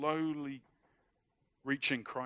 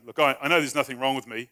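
mock bravado; 7 dB louder than usual. Shown as a demonstration. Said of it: "this is how you do it".

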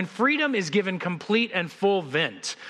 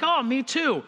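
higher-pitched mock delight; delighted agreement; 7 semitones higher, slower than usual. Bridge stranger finds a fellow Baptist, mock delighted. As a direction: play happy recognition, lightly exaggerated. Joke character delighted at common ground.

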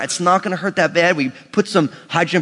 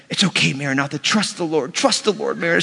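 put-on self-soothing child; 3 semitones lower, 5 dB quieter than usual. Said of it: "She's her own cheerleader".

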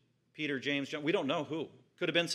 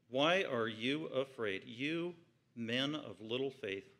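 soft slow rebuke; 4 dB quieter, slower than usual. Acted. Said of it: "He's pretty emphatic".

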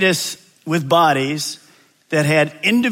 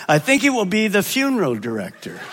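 calm; 3 semitones higher than usual. Acted. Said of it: "the wife calmly replied".

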